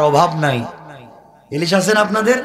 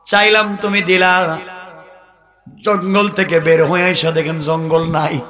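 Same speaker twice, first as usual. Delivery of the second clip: melodic preaching; 3 semitones higher than usual. Real, not acted. Preacher telling the crowd a desert tale, chanted. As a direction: chant the tale, stretching phrase endings.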